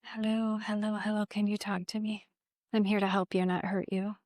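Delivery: soft, reassuring call to a frightened spirit; gentle coaxing. Real, not acted. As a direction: coax her out softly, promising no harm. Medium gently coaxing a weeping spirit.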